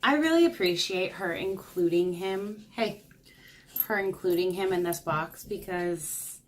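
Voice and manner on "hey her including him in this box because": normal talking voice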